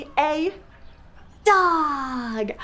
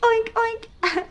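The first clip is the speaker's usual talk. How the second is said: high-pitched piggy oinking; squeaky, playful double oinks; 10 semitones higher than usual. Pretend. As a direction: oink like a little pig. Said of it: "I'm a pig".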